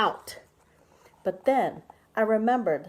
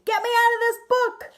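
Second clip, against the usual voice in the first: high panicked scream; 9 dB louder than usual. Acted. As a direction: shriek it out in a high voice. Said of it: "and I screamed".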